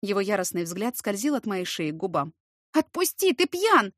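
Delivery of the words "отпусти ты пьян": high, loud cry to let go; shout. Acted. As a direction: yell at him to let go. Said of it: "закричала я".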